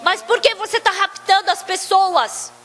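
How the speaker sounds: acted-out argument; arguing. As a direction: demand an explanation, mildly indignant. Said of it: "Ela começou a discutir com ele".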